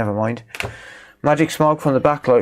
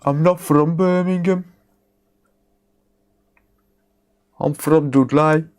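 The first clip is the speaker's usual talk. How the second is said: higher, hammed-up Black Country accent; 4 semitones higher than usual. To chat insisting he's from Dudley, thick Black Country accent.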